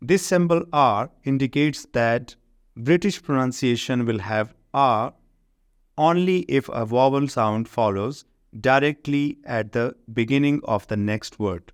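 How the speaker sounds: slow, careful reading of the English rule; slow textbook reading. Shown as a demonstration. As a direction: read the rule out word by word for the class. Reads English textbook rule slowly. (انگریزی قاعدہ آہستہ آہستہ پڑھ کر سنانا)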